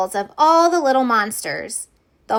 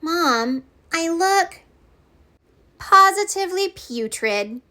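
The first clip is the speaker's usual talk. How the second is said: put-on whiny girl voice; 7 semitones higher than usual. Betty complaining to mom.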